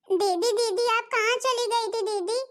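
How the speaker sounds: put-on high-pitched small child's voice; plaintive little brother calling for big sister; little boy. Little brother calls for his sister. (छोटे बच्चे की शिकायती आवाज़)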